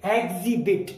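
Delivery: एग्जिबिट said with the h dropped; एग्जिबिट without the h; silent h. Shown as a demonstration. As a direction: say एग्जिबिट as egzibit, no h sound. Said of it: "एच नहीं बोलना".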